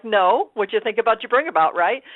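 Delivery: retold rallying of oneself, emphatic; firm pep talk. Actor talks herself out of doubt, firm pep talk.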